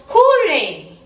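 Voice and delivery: cheerful read-aloud hooray; happy cheer. Acted. Teacher reading Poonam's hooray to pupils, happy cheer. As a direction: cheer it out as a storybook exclamation. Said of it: "word to express our happiness".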